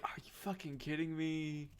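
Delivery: sputter, then blow up; outraged duelist. Acted. Duelists outraged that Lady Palgor officiates, building to a yell.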